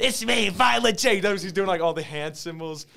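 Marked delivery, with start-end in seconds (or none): 0.0-1.1 high-pitched jump-scare reveal; imitated hype-man entrance; a rapper. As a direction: announce yourself like a jump scare. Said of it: "jump scares the camera and he goes".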